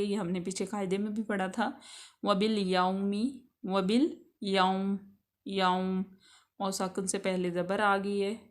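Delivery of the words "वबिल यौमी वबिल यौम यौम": यौम slow, with a soft gliding waw; soft leen waw. Shown as a demonstration. Teacher demonstrates the leen letter, slow gliding waw. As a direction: glide gently through the waw in यौम. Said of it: "वाव जो है वो लीन होगी".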